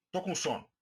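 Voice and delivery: said coldly, with no feeling behind it; detached, unmoved "Tô com sono"; cold phrase. Shown as a demonstration. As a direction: toss off "Tô com sono" coolly, as a bare fact. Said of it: "Soou uma frase fria".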